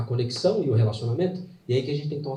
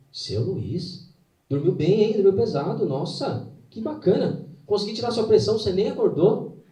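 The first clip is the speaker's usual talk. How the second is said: lightly voiced, higher bright nurse; cheerful nurse; 6 semitones higher than usual. Morning nurse telling the patient he slept well, cheerful and higher. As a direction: chirp it like a pleased nurse at the bedside.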